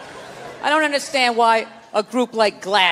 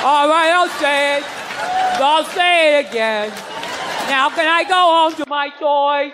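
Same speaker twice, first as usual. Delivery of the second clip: mock child; slower than usual. Child answering church teacher.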